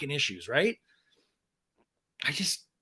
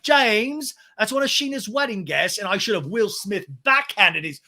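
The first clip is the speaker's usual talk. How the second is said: higher, slow mock outrage; mock scolding; 5 semitones higher, 5 dB louder, slower than usual. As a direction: scold him in a hammed-up huff. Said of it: "And Ariana's like".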